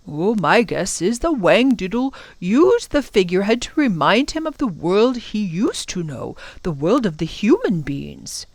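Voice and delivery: lilting, musing professor voice; explaining professor. Acted. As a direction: explain it with a rolling up-and-down lilt.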